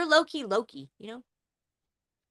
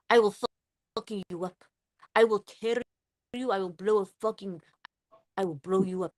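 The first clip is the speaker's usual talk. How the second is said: put-on menacing Russian accent; mock Russian heavy making threats. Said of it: "let me hear your Russian".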